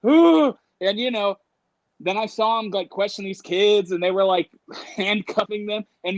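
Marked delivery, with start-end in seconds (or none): 0.1-0.5 high, loud mock-dread "ooh"; anxious whoop. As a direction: let out a comic wail of dread. Dread of arrest while hiding.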